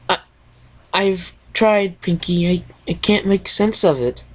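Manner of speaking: lightly voiced timid pony; a hint of a bashful stammer; shy Fluttershy. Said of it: "The shy yellow Pegasus".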